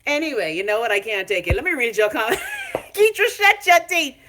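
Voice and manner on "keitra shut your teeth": laughing. Real, not acted. Laughing at a viewer's comment.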